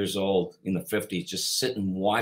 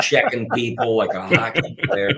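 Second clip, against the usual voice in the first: laughing; 6 dB louder than usual. Real, not acted. Laughing while telling story.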